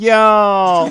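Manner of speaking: high, loud, drawn-out "yo" in Northeastern Dongbei twang.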